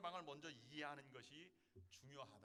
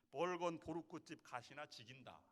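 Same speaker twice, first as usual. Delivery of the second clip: a lightly voiced Gyeongsang accent, a bit louder; Gyeongsang dialect; 9 dB louder than usual. Shown as a demonstration. Pastor demonstrating dialect to the congregation, in a Gyeongsang accent. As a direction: say it like a Gyeongsang local. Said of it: "경상도 사투리로 말하면".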